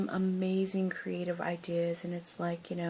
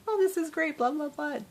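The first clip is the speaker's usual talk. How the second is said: high, gushing chatter; mock enthusiasm; 10 semitones higher, 5 dB louder than usual. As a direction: imitate bubbly small talk with strangers. Mimics herself chatting up strangers.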